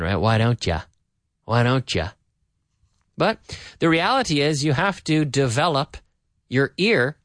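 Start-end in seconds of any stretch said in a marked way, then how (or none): 0.2-2.1 "don't ya" blended as "don-cha"; casual American linking on "don't ya"; very American reduction. Shown as a demonstration. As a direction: run "don't" straight into "ya". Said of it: "It sounds very American".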